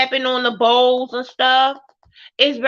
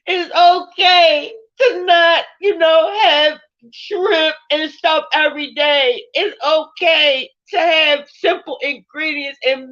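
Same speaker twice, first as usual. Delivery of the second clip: tearful; 2 semitones higher, 4 dB louder than usual. Real, not acted. Telling Khadijah it's okay to be herself, tearful. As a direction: voice rising with real tears. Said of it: "I don't know why I'm crying".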